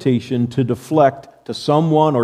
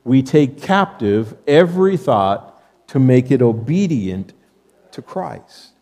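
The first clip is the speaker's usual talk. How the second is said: slow call and response. Shown as a demonstration. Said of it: "Say that, this phrase with me".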